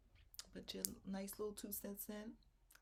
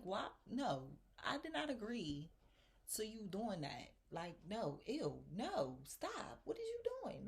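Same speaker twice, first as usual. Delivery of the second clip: retold angry outburst; 3 semitones higher than usual. Retelling confronting a pushy club customer, building angry protest. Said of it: "Like, I was mad".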